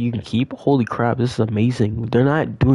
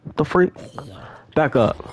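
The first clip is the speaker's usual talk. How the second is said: whispering; 4 semitones higher, 4 dB quieter than usual. Real, not acted. Zombie attack, hushed.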